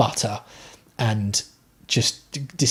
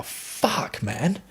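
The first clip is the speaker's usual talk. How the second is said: stunned whisper; 4 semitones higher, 8 dB quieter than usual. Real, not acted. Stunned by the self-driving car.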